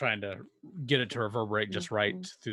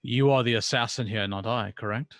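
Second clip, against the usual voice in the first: stern priest; 3 dB louder than usual. Acted. GM plays the priest, quarrelling.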